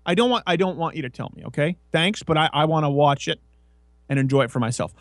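a hint of pleading with an annoying friend; mock exasperated self. Telling Kevin to stop spoiling the film, lightly exasperated. Quoting himself scolding Kevin.

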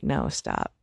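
deep, low firm command; the version with force; forceful no stop. Pretend. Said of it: "grabbed the knife from her and been like".

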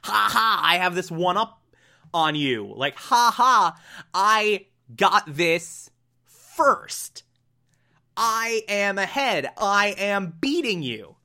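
mocking gloat with a laugh; taunting. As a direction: rub it in like a smug rival. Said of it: "taunting him".

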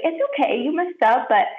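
Christ gently encouraging her after a mistake, tender. Retold or imitated. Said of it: "just encouraging me gently".

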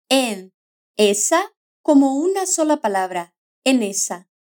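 "en esa" run together as one word, "enesa"; linked words. Shown as a demonstration. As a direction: glide the n of "en" straight into "esa". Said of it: "Solemos unir las consonantes finales".

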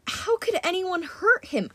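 high, incredulous protest; pained protest. Acted. Protesting harm to a harmless creature.

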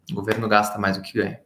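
words echoing as if in a big hall. Real, not acted. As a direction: voice with heavy room echo. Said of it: "o pessoal tá falando que tá com eco aqui".

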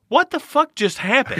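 high, astonished "what the fuck" at the reveal; jaw-on-the-floor amazement; replaying his own shock at the spaceship; stunned disbelief. Retelling shock at spaceship appearing.

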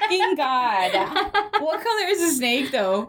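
high, squealing panic with a laugh; horrified, half laughing; shrieking at the thought of a loose snake; panicked squeal. Real, not acted.

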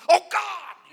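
mock loud, high prayer cry; making a scene. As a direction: cry out in hammed-up public prayer. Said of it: "I'm not making a scene".

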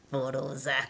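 "Porosa" said through a low giggle; amused and laughing at how it sounds. Real, not acted. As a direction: giggle out the silly word. Laughs at the word again.

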